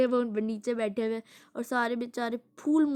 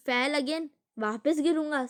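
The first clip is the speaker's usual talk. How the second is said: dad scoffing; 4 semitones higher, slower than usual. Retold or imitated. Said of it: "said dad".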